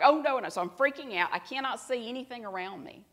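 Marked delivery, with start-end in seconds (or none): 0.0-0.5 high, loud "oh no" in alarm; panicked cry as the car stalls; a flash of fright, higher and louder; retold panic. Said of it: "I'm like".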